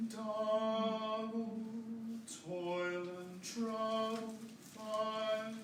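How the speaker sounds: Double, toil and trouble, fire said softly with clear word stresses; phrased demo. Shown as a demonstration. Choir director modeling phrasing, softly stressing word accents. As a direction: stress the strong syllables of toil and trouble, lighter on the rest. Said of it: "Listen to how I do it".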